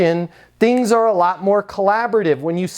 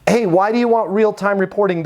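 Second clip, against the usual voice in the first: friendly question; faster than usual. Shown as a demonstration.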